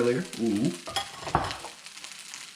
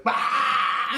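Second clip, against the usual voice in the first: hammed-up high burst of ridicule; mock laughing cry; 11 semitones higher than usual. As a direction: imitate people jeering with laughter. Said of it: "they're, like, laughing at you".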